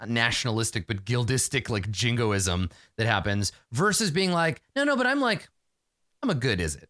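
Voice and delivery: a hint of a pleading social climber; imitating a guild snob. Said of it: "be like".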